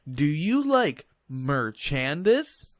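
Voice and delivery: cheesy ad voice. Pretend. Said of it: "just beautiful ad".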